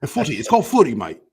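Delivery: hammed-up Aussie bloke correcting you; mock Aussie scold. Correcting Americans about footy, mock Aussie scold.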